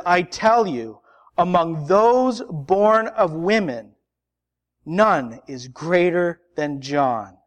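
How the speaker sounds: scripture reading. Acted. Reads Jesus' words from Scripture.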